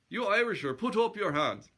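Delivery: high, loud mock-Swedish that still sounds Irish; loud bungled Swedish challenge; attempted Swedish chef accent. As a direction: try for comic Muppet Swedish, landing near Irish. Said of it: "I got to talk like the, the baker in the, uh, the Muppets".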